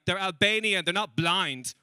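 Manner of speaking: high, loud mock-dad outburst; loud exasperated retort. Dad piping up in the family chat, loudly exasperated.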